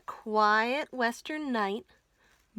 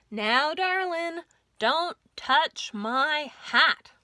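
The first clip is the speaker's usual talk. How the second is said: slow, louder drawl, darling lifted high; sheriff's slow bedtime warning, louder; firm cowboy sheriff; 4 semitones higher, 4 dB louder, slower than usual. Acted. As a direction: lean on touch, slow and firm.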